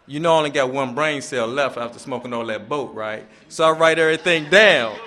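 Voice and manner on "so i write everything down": laughing. Real, not acted. Joke about one brain cell.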